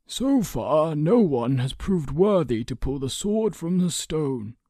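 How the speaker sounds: high, lilting storybook counsellor; careful speaking. A narrator's reading. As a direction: pick the words with care, voice lifted. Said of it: "speaking carefully".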